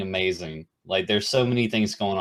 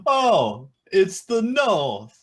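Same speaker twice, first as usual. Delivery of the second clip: higher, louder, slow Yorkshire line; mock Yorkshire accent; 10 semitones higher, 4 dB louder, much slower than usual. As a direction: announce it like a weary northerner. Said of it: "different Yorkshire accents".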